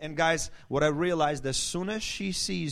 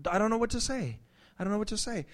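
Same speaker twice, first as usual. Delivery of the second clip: higher-pitched helpless wife voice; imitated tongue-tied wife; 6 semitones higher, faster than usual. Husband mimicking his wife locking up, high helpless voice. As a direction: pitch it up, at a loss for words. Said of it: "she would be like".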